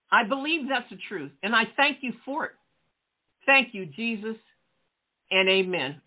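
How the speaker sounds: measured prayer, pausing after each phrase; leading a prayer. Acted. Preacher leading listeners through a prayer of salvation, measured prayer. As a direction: pray phrase by phrase for others to follow.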